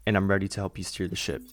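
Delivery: muffled, talking through a helmet visor; inside a helmet. Acted. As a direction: speak as if sealed inside a pilot's helmet. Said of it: "I realize I can't talk like that".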